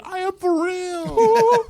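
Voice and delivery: high, very slow robot voice. Retold or imitated. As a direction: drag it out like a laughing robot. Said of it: "and then the robot said".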